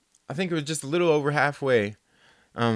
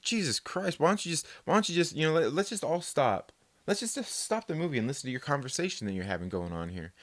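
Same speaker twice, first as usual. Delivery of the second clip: muttered complaint; 6 dB quieter than usual. Retold or imitated. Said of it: "I'm just like".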